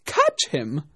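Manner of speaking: loud, urgent shout; rabbit's command. A narrator's reading. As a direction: shout the order to the others. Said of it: "Then the rabbit's voice alone".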